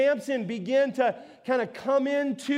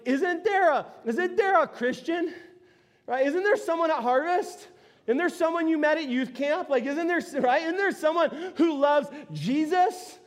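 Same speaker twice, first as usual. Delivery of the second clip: parents pleading; 5 semitones higher than usual. Retold or imitated.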